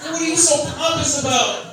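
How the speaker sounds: high mocking jeer. Comic to the crowd about Squidward, high mock jeer. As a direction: sneer at the cartoon, pitched high.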